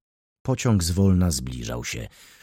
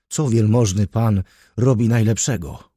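louder, urgent reproach; alarmed rebuke; 2 semitones higher, 5 dB louder than usual. Acted. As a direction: scold him in alarm. Rescuer scolds man on tracks. (głośny, przestraszony wyrzut)

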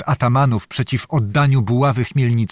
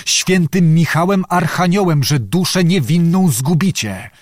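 higher, pleading desperately for his life; desperate cry; 4 semitones higher than usual. Acted. Tatarczuk begging the atamans to spare him, higher desperate cry. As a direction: beg the chiefs, voice pitched up in terror. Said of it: "krzyknął przeraźliwie".

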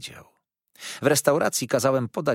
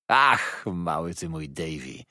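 exclamation that starts raised and drops away; exclaiming; 4 semitones lower, slower than usual. A narrator's reading. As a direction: cry out on the first word, then ease down. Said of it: "zawołał". (okrzyk, który szybko opada)

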